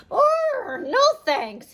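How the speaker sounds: high startled goat bleat. Acted. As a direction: squeal it out like a scared goat. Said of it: "he bleated".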